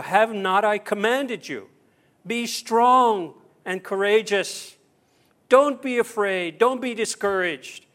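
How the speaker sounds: commanding voice. Acted. God commanding Joshua, preached.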